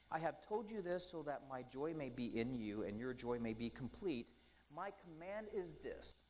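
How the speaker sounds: solemn Bible reading; scripture reading. Acted. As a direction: let each word of scripture land.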